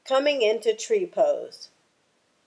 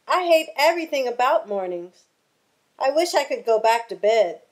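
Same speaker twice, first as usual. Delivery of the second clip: angry; 2 semitones higher, faster than usual. Acted. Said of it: "Lizard replied angrily".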